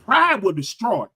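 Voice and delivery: slow, weighty all-caps read; mock booming pronouncement. Shown as a demonstration. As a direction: read it like it was typed in capital letters. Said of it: "I'm gonna try to read it like he wrote it".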